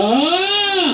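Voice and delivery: high ringing ah thrown far; projected shout. Shown as a demonstration. Teacher shows the class how to project the voice far. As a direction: throw the ah to the back row. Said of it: "Ganito, oh".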